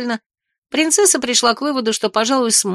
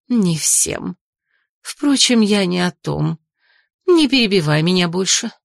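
stern aunt; 3 semitones lower, slower than usual. Acted.

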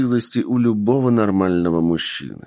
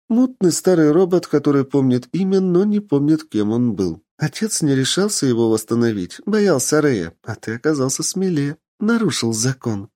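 rapid chatter; 6 semitones higher than usual. Acted. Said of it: "тараторила Ева".

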